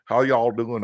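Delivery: lightly imitated Southern US greeting; Southern accent. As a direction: put on a touch of Southern twang. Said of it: "this guy was from the South".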